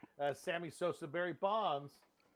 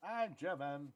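put-on softer botched German accent; wrong German accent; 7 dB quieter, slower than usual. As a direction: quietly fake a German accent. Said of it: "Just do wrong accents for everything".

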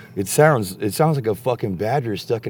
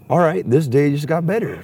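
loud, higher-pitched acted delight; retold excitement; 7 semitones higher, 4 dB louder than usual. Telling a friend Luke's luck turned, excited retelling. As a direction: relive the happy surprise, voice lifted.

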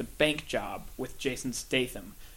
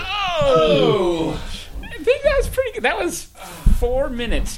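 high, loud, fast celebration; excited cheer; 12 semitones higher, 8 dB louder than usual. Real, not acted. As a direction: cheer him on, he made it. Cheering end of wall sit.

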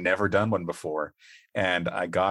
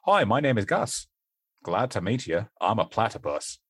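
Australian accent attempt. Shown as a demonstration. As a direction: attempt a straight Australian introduction. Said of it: "That was me attempting to do an Australian".

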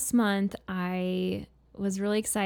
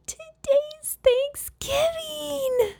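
grand announcement; much slower than usual. Retold or imitated. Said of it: "And I said".

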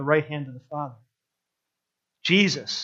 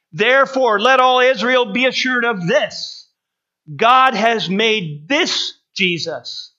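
climactic proclamation; 5 semitones higher, 4 dB louder, slower than usual. Acted. Climax of Peter's sermon.

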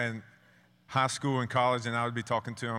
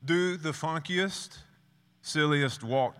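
higher, slow, playful call; coach's playful order; 7 semitones higher, 3 dB louder, slower than usual. Retold or imitated. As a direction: stretch it out to tease him. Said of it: "And he said".

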